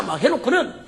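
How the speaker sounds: normal talking voice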